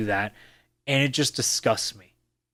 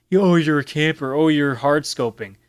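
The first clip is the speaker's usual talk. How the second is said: mocking challenger; 4 dB louder than usual. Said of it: "when people challenge me on".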